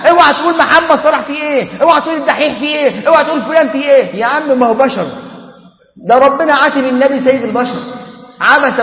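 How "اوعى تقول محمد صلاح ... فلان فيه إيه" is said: a touch of outraged fan pleading; mock defensive fan. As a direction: mimic a fan guarding his idol, fast at the end. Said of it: "وتقول لك".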